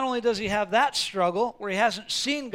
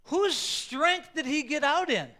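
ordinary talk, nothing marked

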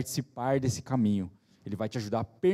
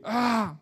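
high-pitched exasperated "ah"; angry outburst; 9 semitones higher than usual. Retold or imitated. Father cross after his child falls, angry cry. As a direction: imitate a cross parent's yelp. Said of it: "ele fica bravo com ele".

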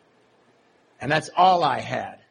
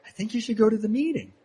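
higher, heavy stress on MEETING; pointed and knowing, leaning on "meeting"; pointed, knowing delivery; 6 semitones higher, faster than usual. Retold or imitated. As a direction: lean hard on "meeting" like it's obvious. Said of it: "but he said it more like".

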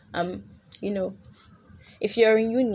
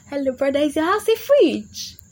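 mock incredulous question; 6 semitones higher, 6 dB louder than usual. Girl teasing a boy who suggests his house, mock incredulous. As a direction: challenge him, raised and stretched out.

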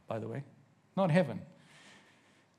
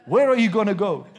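mock hellfire preacher; 2 semitones higher, 8 dB louder than usual. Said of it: "I grew up that way in church".

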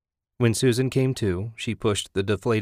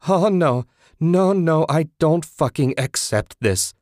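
high, loud screamed refusal; screaming denial at her dead roommate; 8 semitones higher, 5 dB louder than usual. A narrator's reading. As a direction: scream against what you see. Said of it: "Susan screamed".

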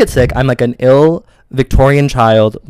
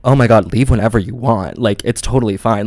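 imitated manager; 3 semitones lower, 4 dB quieter than usual. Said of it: "he was like".

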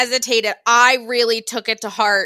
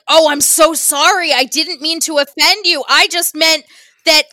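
higher, louder eager apologizing; flustered apology; 3 semitones higher, 4 dB louder than usual. Retold or imitated. Clawhauser apologizing to Judy for calling her cute, flustered. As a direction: babble sorry like a flustered friendly cop.

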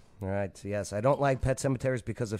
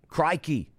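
higher-pitched mock Australian exclamation; Australian accent; 5 semitones higher than usual. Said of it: "Can you do an Australian accent?".

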